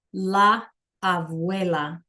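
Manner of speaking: slow, careful classroom pronunciation; slow demo. Shown as a demonstration. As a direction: draw la abuela out for the class. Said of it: "You can try that one".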